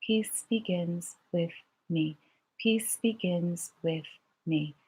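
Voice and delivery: slow hushed whisper of the mantra. Shown as a demonstration. Teacher has the class whisper the mantra softly. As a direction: breathe the words out in a whisper. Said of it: "And now with a whisper".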